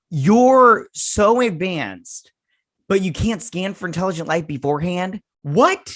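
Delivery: mock the aliens with disbelief; incredulous scorn. Her own mock reply to the aliens.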